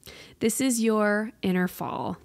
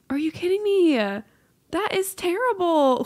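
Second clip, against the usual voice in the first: higher, louder indignant cry, That is terrible drawn out slowly; outraged disbelief; 9 semitones higher, 4 dB louder, slower than usual. Real, not acted. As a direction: cry out in mock outrage at the cycle. Outraged at the cycle.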